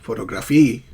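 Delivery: "photography" as PHO-to-GRAPHY; mis-stressed PHO-to-graphy; wrongly stressed example. Shown as a demonstration. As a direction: give "photography" full vowels, no stress on TOG. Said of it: "not photography".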